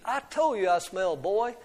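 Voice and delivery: mild storybook bellow; a touch of indignant roar; bellowing giant. Acted. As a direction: protest as a lightly voiced bellowing giant. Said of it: "he bellowed".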